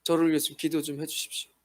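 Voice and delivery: a touch of self-deprecating humility; humble reply. Retold or imitated. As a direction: answer humbly, asking for prayer. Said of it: "그러면 제가 이야기할 수 있어요".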